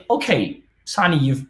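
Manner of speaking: imagined student asking. Retold or imitated. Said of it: "asking me".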